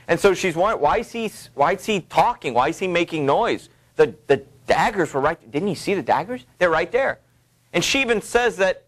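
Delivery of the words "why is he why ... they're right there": Lady Macbeth worrying. Acted. Lady Macbeth's worried thoughts voiced.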